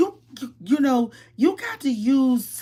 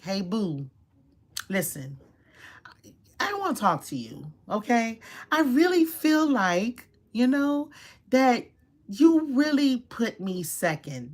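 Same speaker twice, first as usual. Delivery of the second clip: softer, gentle, unhurried lead-in; calm opener; 3 dB quieter than usual. Shown as a demonstration. To her partner, a soft calm opening. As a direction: ease into it so he listens.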